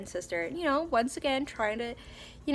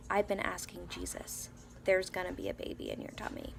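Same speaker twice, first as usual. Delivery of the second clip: put-on quiet child voice; 2 semitones lower, 7 dB quieter than usual. Daughter tells mom.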